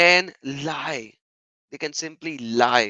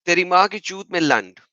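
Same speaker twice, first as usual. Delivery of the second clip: reading the insult fast; 4 semitones higher, 5 dB louder, much faster than usual. Retold or imitated. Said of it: "he commented".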